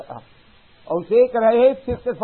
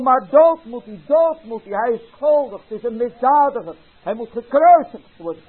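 louder, higher demanding cries; crowd calling; 4 semitones higher, 6 dB louder than usual. Acted. Scribes and elders call for death, loud higher cries. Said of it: "en die roepen".

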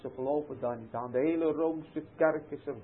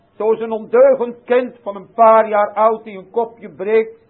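loud, lifted pulpit voice; fervent preaching; 3 semitones higher, 11 dB louder than usual. Acted. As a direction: press the parable on the congregation. Preaching the child parable. (vurig en luid gepreekt)

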